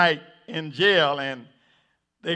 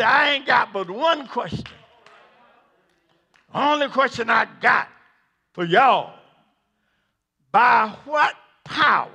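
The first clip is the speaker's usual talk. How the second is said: judge yells; 4 semitones higher than usual. Acted. Judge yells his one question at Peter and John. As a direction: thunder the question from the bench. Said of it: "and yells out one question".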